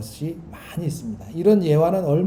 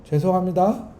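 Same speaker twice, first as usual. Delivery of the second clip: mocking "죄송합니다" with a rising sneer; sarcastic apology; 3 semitones higher than usual. Shown as a demonstration. Preacher contrasting a scornful apology, mocking. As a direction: say "죄송합니다" as if rolling your eyes. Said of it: "이 말은 신기하게 달라요".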